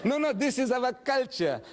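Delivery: laugh, then protest through it; amused, laughing tease. Real, not acted. Laughing while teasing young man.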